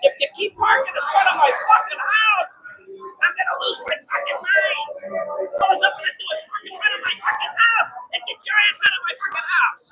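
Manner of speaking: acted rant at a neighbor, pitch pushed up; retold angry telling-off. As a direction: warn him off, worked up and swearing. Retells telling off his blocking neighbor.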